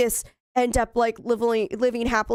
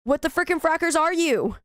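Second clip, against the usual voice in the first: higher-pitched, incredulous demand; exasperated bafflement; 5 semitones higher than usual. Real, not acted. Gamer demanding what the game figure is, exasperated.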